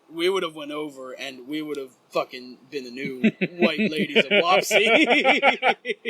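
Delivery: words breaking up into laughter; laughing while talking. Real, not acted. Storyteller joking about nearly going over the railing, cracking up. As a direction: crack up through the punchline.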